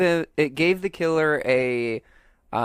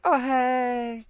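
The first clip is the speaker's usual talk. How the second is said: high, breezy mock hello; mock casual greeting; 9 semitones higher than usual. Host mocking Diane's casual reply, high and light. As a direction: toss it off casually. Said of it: "she's like".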